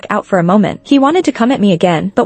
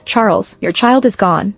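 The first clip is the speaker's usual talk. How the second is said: calm. Acted. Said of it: "calmly said".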